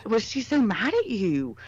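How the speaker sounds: slow, gentle worried question; concerned. Retold or imitated. Asking Ian about his aunt, slow concern. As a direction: ask a friend slowly if he's okay. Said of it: "but I said".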